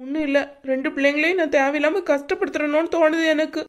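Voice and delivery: upset, lightly crying voice; tearful. Acted. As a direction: speak through tears, feeling like a burden. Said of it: "இப்ப திடீர்னு அழுகுற?".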